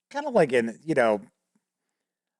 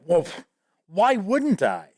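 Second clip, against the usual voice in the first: real attitude; 4 semitones higher than usual. Retold or imitated. Player answering the game master's warning, with real attitude. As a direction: imitate a cocky player brushing off a warning. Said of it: "real attitude".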